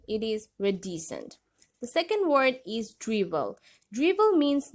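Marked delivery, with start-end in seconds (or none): 0.1-1.4 "reticent" in American pronunciation, softened middle t; American accent. Shown as a demonstration. Teacher showing learners the American pronunciation of reticent, American accent. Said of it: "But in American accent".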